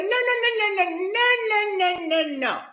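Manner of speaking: high, insistent string of noes; emphatic refusal. Retold or imitated. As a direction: imitate an insistent promoter cutting in. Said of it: "And she was so emphatic".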